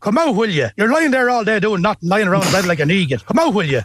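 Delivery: "Come out, will ya?" in a broad Irish Midlands accent. Shown as a demonstration. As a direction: nag someone in bed like a Mullingar local. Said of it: "Number two".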